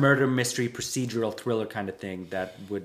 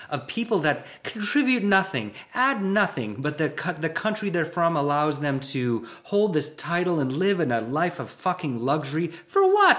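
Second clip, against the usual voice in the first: exasperated rant; 5 semitones higher than usual. Retold or imitated. Railing against the royal family, exasperated. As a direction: rant with rising outrage at the royals. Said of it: "it's like".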